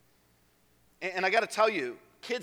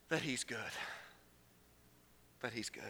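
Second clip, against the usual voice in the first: near-silent low repeat; soft reverent murmur; hushed; 6 semitones lower, 13 dB quieter than usual. Real, not acted. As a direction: let it land softly.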